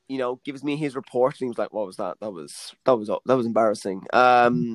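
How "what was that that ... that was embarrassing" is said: disapproving head of acting. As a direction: imitate a teacher's hushed, unimpressed verdict. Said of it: "Head of acting".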